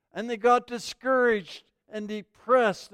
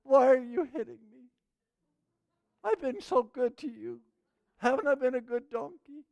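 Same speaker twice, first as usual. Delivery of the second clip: talking donkey; 3 semitones higher than usual. Retold or imitated. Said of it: "the donkey looks up and says".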